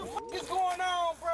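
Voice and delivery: high-pitched, bewildered outcry; agitated protest. Real, not acted. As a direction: demand answers, voice pushed high. Suspect protests arrest.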